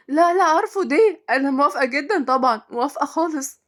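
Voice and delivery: high, gushing agreement; excited, insistent yes; eager acceptance. Acted. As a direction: jump at the offer. Eagerly accepts the resort job.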